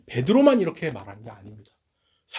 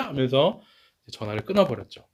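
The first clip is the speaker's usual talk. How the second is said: usual speaking voice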